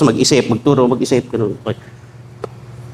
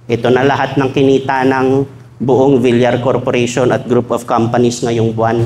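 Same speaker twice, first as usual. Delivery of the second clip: lightly voiced tycoon husband speaking to wife; Manny Villar; 5 semitones lower than usual. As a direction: hand over everything tenderly. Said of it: "Sasabihin niya kay Cynthia Villar".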